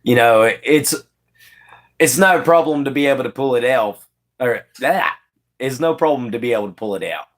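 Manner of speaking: casual, easygoing Australian accent; Aussie accent. Shown as a demonstration. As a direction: put on an Aussie accent, relaxed and conversational. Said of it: "Aussie accent time".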